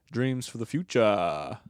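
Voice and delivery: slow, put-on South African accent; lightly voiced South African guy. To listeners, his character in a South African accent. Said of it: "schizophrenic South African guy who is white".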